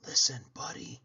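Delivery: soft breathy whisper. Acted. Parents whispering to Buddy, whispered. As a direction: lean in and whisper it. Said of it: "They tried whispering".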